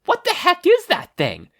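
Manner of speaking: full shocked shout; yell. Acted. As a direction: scream it out face to face with the monster. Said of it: "Kathleen couldn't help but yell".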